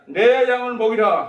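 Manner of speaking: high, slow, emphatic pronouncement; Jesus's solemn command. Acted. Preacher quotes Jesus commissioning Peter, emphatic proclamation. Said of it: "예수님이 뭐라 했습니까".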